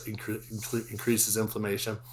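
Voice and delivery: stumbling over words with a retainer; talking around a new retainer; wearing a retainer. Real, not acted. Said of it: "I have a new retainer and I'm still learning how to talk".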